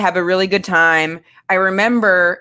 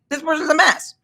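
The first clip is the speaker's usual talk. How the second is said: mock judgment; 7 semitones higher than usual. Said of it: "I would have been like".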